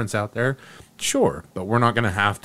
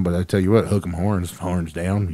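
put-on Texas accent, lower pitch; 3 semitones lower than usual. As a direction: play up a Texan sign-off, dropping low. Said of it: "I'm talking my Texas accent now".

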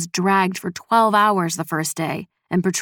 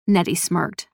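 plain reading voice

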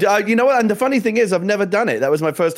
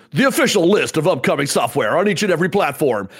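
requested show voice. Pretend. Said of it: "asked for that voice".

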